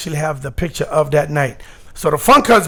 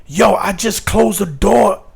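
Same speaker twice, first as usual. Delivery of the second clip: rising panic; 3 semitones higher than usual. Retold or imitated. Panicked after slamming door on idol.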